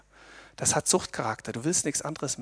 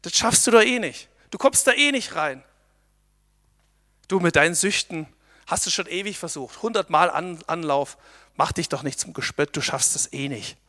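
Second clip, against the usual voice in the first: mocking whisper; 4 dB louder than usual. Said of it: "Das flüstert dir der Teufel ein".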